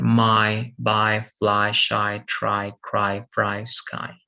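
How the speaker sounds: "My, buy, fly" ending in a clear "eye" sound; Y as long I. Shown as a demonstration. Teacher reading one-syllable examples for students, Y as long I. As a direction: say "shy, try, cry" with final Y as "eye". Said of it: "Y is pronounced as".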